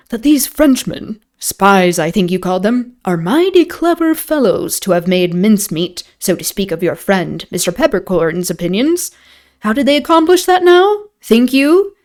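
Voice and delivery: lightly voiced stranger, lifting at the questions; lightly acted, mock-puzzled questioner; stranger in an inn. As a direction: probe the innkeeper with a hint of theatrical curiosity.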